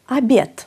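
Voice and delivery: Αμπιέτ with the first "o" reduced to "a", ending in t; unstressed o as a. Shown as a demonstration. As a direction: open Αμπιέτ on a short "a", close it on t. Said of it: "πάλι έχουμε άτονο ο". (Αμπιέτ με το άτονο «ο» σαν «α» και τελικό «τ»)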